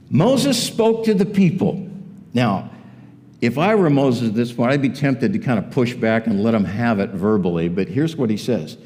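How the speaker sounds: normal talking voice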